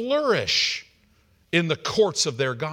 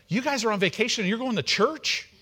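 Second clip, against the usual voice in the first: higher-pitched, quick disbelieving question; incredulous mom; 6 semitones higher, faster than usual. Retold or imitated. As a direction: imitate a baffled mother questioning them. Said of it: "she's like".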